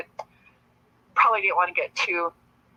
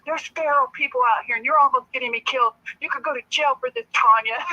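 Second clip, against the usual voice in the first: mock yell; 5 semitones higher than usual. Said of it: "he's yelling at us".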